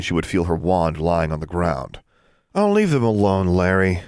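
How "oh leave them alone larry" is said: amused. Acted. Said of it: "She sounded more amused than annoyed".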